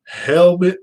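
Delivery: blurting out the wrong word; blurted slip. Retold or imitated. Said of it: "and I say".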